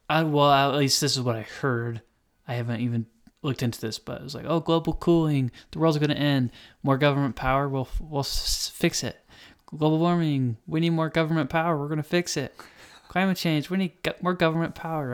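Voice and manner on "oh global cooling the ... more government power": higher-pitched, urgent parody of doomsayers; exaggerated alarmist pitch, mocking. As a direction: rattle off each crisis like a panicked campaigner. Mocking recurring alarmist political claims.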